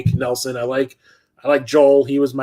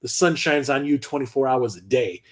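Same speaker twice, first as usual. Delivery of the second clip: laid-back cool guy, a touch softer; 5 dB quieter than usual. Retold or imitated. Mugshot cool guy answering the macho cop, smug and relaxed. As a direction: play it smug and unbothered. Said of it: "And he goes".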